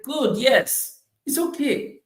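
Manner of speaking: gracious acceptance. Retold or imitated. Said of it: "receive it with grace".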